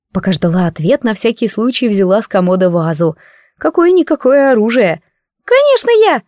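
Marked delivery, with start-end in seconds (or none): 5.4-6.2 very high, happy little voice; joyful squeak. A narrator's reading. Spirit joyfully answers the heroine in a squeaky voice. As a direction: burst out gladly as the spirit. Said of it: "радостно сообщил".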